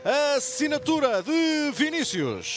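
excited goal call, stretched out; fast dramatic football commentary. Real, not acted.

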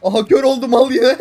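loud yell breaking into laughter; laughing shout. Real, not acted. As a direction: shout it while cracking up. Shouting laughing at game moment.

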